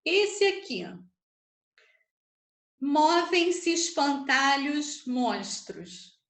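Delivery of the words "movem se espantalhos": slow MOVEM-SE ESPANTALHOS, SE and ES merged into one syllable; syllables run together. Shown as a demonstration. Teacher scanning verse for students, syllables run together. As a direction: link "se espantalhos" as "ses-pantalhos", slowly. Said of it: "falei junto. Uma sílaba só".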